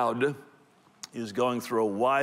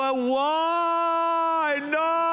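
much higher, shocked wail of dismay; horrified friend; 3 dB louder, much slower than usual. Acted. Friend hearing Ann got saved, high mock dismay. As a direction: squeal out a shocked, hammed-up no. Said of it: "And they go".

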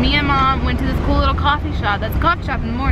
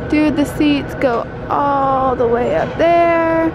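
slow, called-out wonder at the seats; excited; slower than usual. Real, not acted. Kid to family in stadium, excited call. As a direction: call it up to the top rows.

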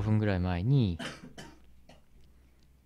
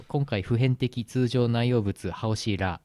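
fake Chinese; slower than usual. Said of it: "適当なエセ中国語を足して".

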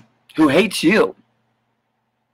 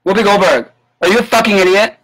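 exasperated insult; 3 semitones higher than usual. Real, not acted. Vlogger ranting at Whoopi on camera, exasperated. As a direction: scoff at her like she's an idiot.

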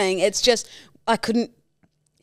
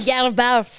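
mock shouted Scottish phrase; imitating the Scottish nurse; hammed-up Scottish accent; 3 semitones higher, 4 dB louder than usual. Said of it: "most thick Scottish fucking accent".

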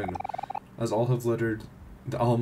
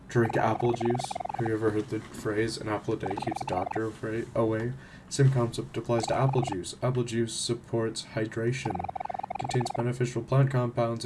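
earnest apple juice pusher. Acted. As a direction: sell the apple juice like a devout believer. Apple juice character's pitch.

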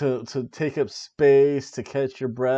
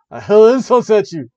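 mock taunt; 5 semitones higher, 12 dB louder than usual. Monty Python style taunt.

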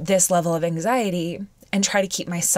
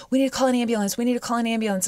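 higher, urgent pleading; retold urgent panic; 5 semitones higher, much faster than usual. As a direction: press for an ambulance, lightly acted. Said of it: "freaked out too".

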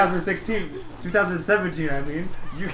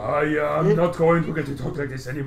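lightly voiced mock ninja; a hint of a cartoon ninja; weird ninja voice. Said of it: "talk in the weird ninja voice".

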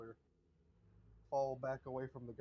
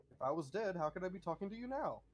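dismissive butler; 6 semitones higher, 6 dB louder, faster than usual. Acted. Butler denies being dead.

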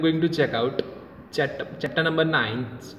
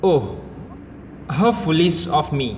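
fast, all in one rush; quick embarrassed rush; in one breath; 2 semitones higher, much faster than usual. A narrator's reading. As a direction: rattle it off without a breath. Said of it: "speaks in one breath".

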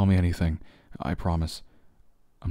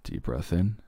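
breathing coach; slower than usual. Shown as a demonstration. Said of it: "let's do a little bit of a breath exercise".

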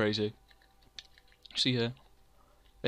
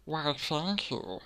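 put-on thanks; 3 semitones higher, 4 dB quieter, much slower than usual. Answers own insult in put-on voice.

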